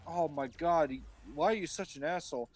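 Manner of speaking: high-pitched mock complaint; whining Cain. Cain complaining to God, mock exasperation. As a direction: protest in hammed-up dismay. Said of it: "And Cain's like".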